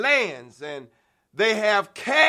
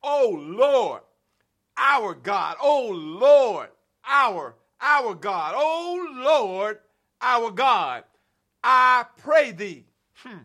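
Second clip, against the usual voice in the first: leading the prayer; slower than usual. Shown as a demonstration. Preacher leading the congregation in prayer, chanting. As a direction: chant it for the church to echo. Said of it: "somebody ought to say that with me".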